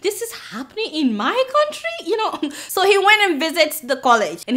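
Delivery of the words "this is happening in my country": high shout of disbelief on what; squeaky shocked what; mock shocked president. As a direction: act out the president's outrage. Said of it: "He was like".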